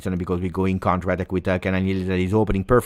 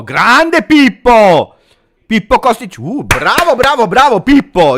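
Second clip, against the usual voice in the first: high, loud, slow stretched cheer; ecstatic cheer; 13 semitones higher, 12 dB louder than usual. Real, not acted. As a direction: roar praise for the player. Cheering player's cross.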